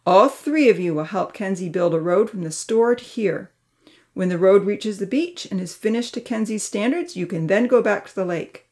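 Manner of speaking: stern verdict; firm. Acted. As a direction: set the rules with no room to argue. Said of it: "said firmly".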